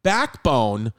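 hyped podcast ad read with drawn-out brand name; host reading a sponsor spot to listeners, salesy. Acted. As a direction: sell it to the listeners, pushy and playful. Host reads sponsor ads.

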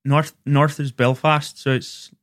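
Northern Irish accent. Shown as a demonstration. Demonstrating north versus south for friends, Northern Irish accent. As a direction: feel your way into a Belfast accent. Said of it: "Okay, north".

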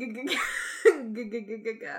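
clicking g sounds like turning gears; gear noise. Retold or imitated.

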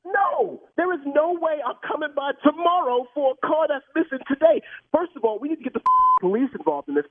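firm, heated no; furious caller refusing to come tomorrow; angry refusal. Real, not acted. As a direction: shut the idea down hard. Victim refuses, demands police.

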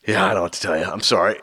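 low, offhand, shrugging it off; husband shrugging off the debt to his wife, nonchalant; nonchalant shrug. Retold or imitated. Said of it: "it's so nonchalant".

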